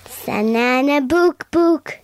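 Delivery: reversed gibberish sounds; backwards speech. Shown as a demonstration. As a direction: mimic a reversed recording. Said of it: "Okay, you try it, Ollie".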